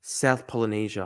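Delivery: usual speaking voice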